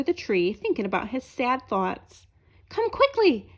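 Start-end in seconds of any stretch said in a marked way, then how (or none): 2.7-3.5 tall men urging. A narrator's reading. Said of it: "said the two tall men".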